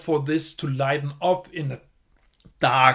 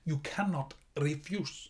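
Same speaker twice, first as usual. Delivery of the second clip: lightly imitating a film mafia boss with a blocked nose; mock movie gangster; 5 dB quieter than usual. Mocking how actors play Italian gangsters, in a stuffy mobster voice. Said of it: "They all talk the same way".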